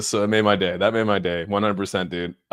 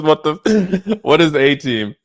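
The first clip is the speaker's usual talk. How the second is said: higher, louder, imitating a baffled viewer through laughter; laughing mock confusion; 6 semitones higher, 6 dB louder, slower than usual. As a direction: play the confused guy while cracking up. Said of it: "The guy goes".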